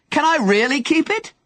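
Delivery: high, eager call upward; calling back. Acted. Young man calling up to Henry, eager call. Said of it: "the man called back".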